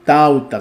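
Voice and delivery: tauta slowly, falling, with an open A; correct form. Shown as a demonstration. Teacher confirming the right form, slow tauta. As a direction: settle on tauta. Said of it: "sino tauta".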